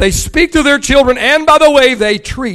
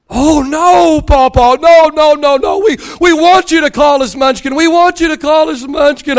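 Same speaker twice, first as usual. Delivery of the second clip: put-on pleading kids; 5 semitones higher than usual. Grandkids pleading in retold story.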